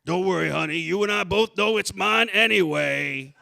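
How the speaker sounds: reassuring Daddy character voice; father voice. Acted. Father reassuring his daughter in a skit, comforting.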